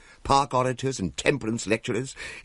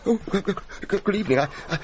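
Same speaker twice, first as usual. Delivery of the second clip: higher, stammering and flustered; nervous stammer; 3 semitones higher, faster than usual. Acted. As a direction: stutter with fright at the ghost. Stammering before a ghost.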